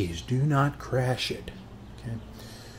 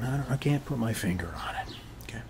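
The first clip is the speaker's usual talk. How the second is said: quick musing whisper; 5 dB quieter, faster than usual. Acted. Neighbor puzzling over soda sweetness, quick whisper. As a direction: whisper it fast, searching for words.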